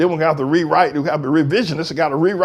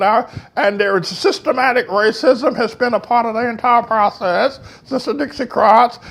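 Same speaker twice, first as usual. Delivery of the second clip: pinched nose voice; 6 semitones higher than usual. Retold or imitated. Mocking Kamala-style talkers, a hint of a pinched, proper voice. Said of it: "they talk like this".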